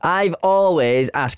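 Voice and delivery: ordinary talk, nothing marked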